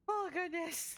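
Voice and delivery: normal talking voice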